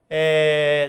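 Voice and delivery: ordinary talk, nothing marked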